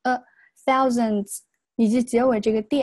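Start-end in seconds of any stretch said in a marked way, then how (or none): 0.0-1.4 "a, thousands" with a schwa in the second syllable; weak vowel in thousands. Shown as a demonstration. Teacher showing weak reading, light schwa in "thousands". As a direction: reduce the last vowel of "thousands" to uh. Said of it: "这个是一个弱读".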